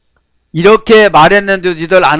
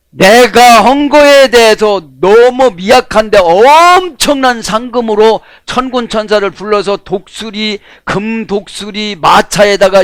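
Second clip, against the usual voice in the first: excited preaching; 4 semitones higher, 4 dB louder, slower than usual. Acted.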